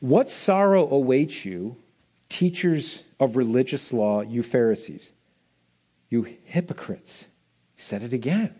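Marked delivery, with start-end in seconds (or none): 0.0-7.3 low, slow, solemn rebuke; Jesus' woe to the Pharisees, low and slow; lower, quieter reading of Jesus. Acted. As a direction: read it heavy and grave, almost under breath. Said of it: "This is what he says".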